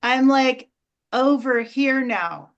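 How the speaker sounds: cheeky elf announcing its new spot; Elf on the Shelf. Pretend. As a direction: play the elf who moved overnight. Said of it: "This is my impression of Elf on the Shelf".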